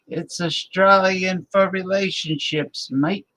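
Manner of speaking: lightly hammed-up Australian ad tagline; Australian beer-ad voice. Streamer repeats his Foster's-style joke in a light Australian accent. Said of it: "the old Foster's beer commercial".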